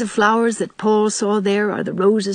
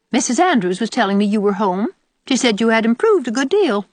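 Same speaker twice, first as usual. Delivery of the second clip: put-on higher-pitched, grudging old aunt; disagreeable old aunt; 5 semitones higher, 4 dB louder than usual. Old aunt passing on a report to Anne, grudging. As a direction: pass on praise as if doubting every word.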